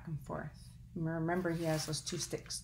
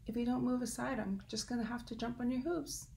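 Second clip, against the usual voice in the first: wren threat; 6 semitones higher, faster than usual. Acted.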